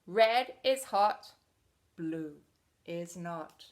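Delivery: boastful Red. Acted. Red bragging at Blue, lightly voiced bully. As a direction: puff up a little as Red. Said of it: "he'd say".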